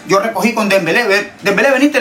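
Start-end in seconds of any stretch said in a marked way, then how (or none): 1.4-2.0 calling teammate. Retold or imitated. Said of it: "le digo".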